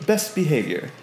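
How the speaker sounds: lightly voiced, formal announcement; officious Olzek. Olzek relaying Beldor's strict orders, lightly officious. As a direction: recite orders stiffly, with deliberate pauses. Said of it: "you see him stand up tall, put his hands to his side and goes".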